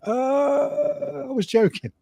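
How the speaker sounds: high, startled "I was joking". Retold or imitated. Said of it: "I'm like".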